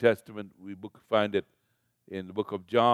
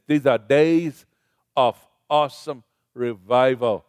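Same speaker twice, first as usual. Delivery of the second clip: building fervor; 5 dB louder than usual. Real, not acted. Preacher building to climax.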